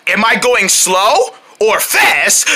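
fast demo. Shown as a demonstration. Host quizzing children in the game, brisker question. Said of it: "I'm going fast".

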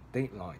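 DEADline, stressed on DEAD; stress on first part. Shown as a demonstration. Teacher repeating the example for learners, stress on DEAD in "deadline". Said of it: "the stress will need to be put".

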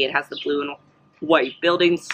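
talking through hiccups. Real, not acted. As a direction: hiccup breaks up "has" and "buildings". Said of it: "I have the, the hiccups".

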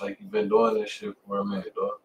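ordinary talk, nothing marked

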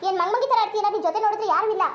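exasperated telling-off; scolding. Acted. Friend threatening to phone her parents, exasperated scolding. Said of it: "ಮತ್ತೆ ನೀನ್ ಬೈಬೇಡ ನನ್ಗೆ".

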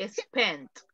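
"Spent" ending in a clear T; pronunciation of spent. Shown as a demonstration. Teacher correcting student's "spend" to "Spent". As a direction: finish "Spent" with a crisp t. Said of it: "la T de tomate".

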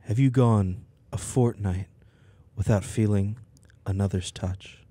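low, breathy seductive read; sultry narrator. Acted. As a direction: purr it like a seductive trailer voiceover. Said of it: "with a sultry voice".

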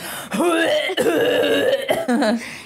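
wheezy mock asthmatic cough; hacking wheeze, played for laughs; imitated coughing. Asthmatic masseuse during the massage, imitated coughing. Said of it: "so she'd be like".

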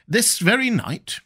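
high, slow, incredulous "This very night?" with "very" stressed; astonished question. A narrator's reading. Conseil to the professor, startled and disbelieving. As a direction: sound amazed that it happened "this very night".

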